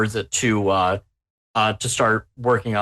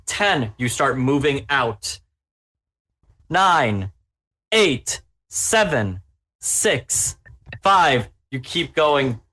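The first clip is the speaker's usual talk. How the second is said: dramatic countdown; 3 semitones higher, slower than usual. Acted. GM countdown to explosion.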